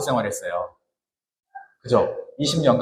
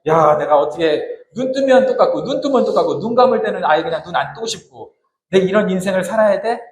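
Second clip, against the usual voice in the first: exasperated complaint; 4 semitones higher than usual. Retold or imitated. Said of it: "광야에서 자기 인생 한탄하면서".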